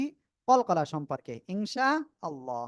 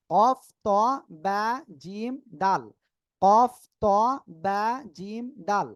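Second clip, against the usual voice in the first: letters one at a time, punching the first; separated letter drill; 5 dB louder than usual. Shown as a demonstration. Teacher repeating five letters for learners, separated letter drill. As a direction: list each letter separately with small pauses.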